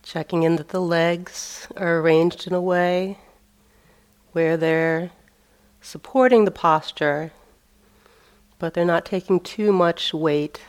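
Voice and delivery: measured meditation-teacher voice with long pauses; phrase by phrase, leaving space between instructions; guided meditation. Real, not acted. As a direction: guide them into the sitting posture, unhurried. Leads a seated meditation.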